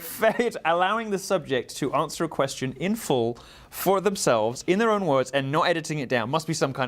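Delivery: high, ironic mock outrage; sarcastic. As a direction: pretend to be appalled. Continuing sarcastic bit.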